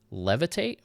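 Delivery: unsure of the name, lift LEVITATE at the end; questioning intonation. Real, not acted. Unsure what the ability was called, questioning. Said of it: "I say that like a question".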